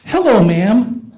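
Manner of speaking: slow, drawn-out "Hello, ma'am" as a telemarketer; a lightly voiced polite caller; imitating caller. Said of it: "take it down a notch".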